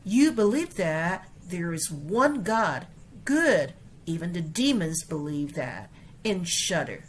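整句示范朗读; model reading. Shown as a demonstration. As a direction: read the whole verse out for the class. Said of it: "整个来一句哈".

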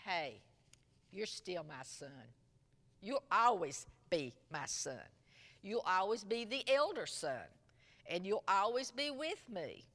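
gentle, reassuring father; a father comforting his elder son, tenderly. Retold or imitated. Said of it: "in a very tender voice".

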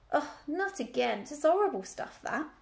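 a country ewe grumbling about her medicine; a lightly voiced old ewe's grumble.

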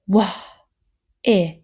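"Wah" then "if", each part separate and loud; sounded out. Shown as a demonstration. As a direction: split "whiff" into "Wah" and "if". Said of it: "Now listen carefully to this one".

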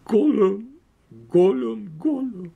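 high, desperate creature voice with gulping Gollum calls. Acted. Gollum despairing over the ring, high gulping cries. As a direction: grieve like a wretched creature.

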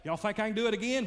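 loud, high call to a crowd; showman calling out. Retold or imitated. Tightrope walker hollering to the crowd below, loud. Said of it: "He says".

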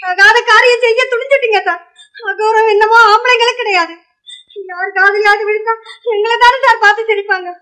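high-pitched, aggrieved reproach; high and hurt, accusing; wounded reproach. Acted. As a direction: shame him in a high, upset voice. Woman reproaches the man for misconduct.

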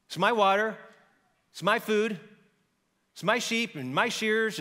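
loud possessive list, my stressed; greedy insistence. Acted. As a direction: hammer every my, slowing down. Nabal listing his possessions.

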